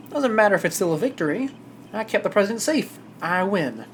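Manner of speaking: put-on easygoing southern accent. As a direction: play it as a cocky southern lawman. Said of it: "I'm really popping off this southern accent".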